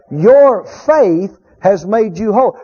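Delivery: "Your faith has made you whole" slow, with "faith" leaned on; slow down and land hard on "faith"; stress on faith. Shown as a demonstration. Preacher showing the flock where the Lord put the emphasis on "faith". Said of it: "where the Lord put the emphasis".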